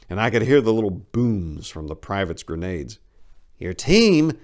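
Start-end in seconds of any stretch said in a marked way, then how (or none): 3.6-4.4 high, loud questioning echo; the interrogator turns the question back; interrogator's question. Acted. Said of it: "the interrogator asked".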